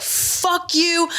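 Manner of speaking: high, drawn-out angry imitation; mock angry outburst. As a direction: reenact cursing someone to their face. Retelling furious confrontation in her face.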